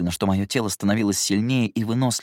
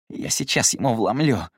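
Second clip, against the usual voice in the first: strained rasp; 3 semitones higher than usual. Acted. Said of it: "надрывно прохрипел он".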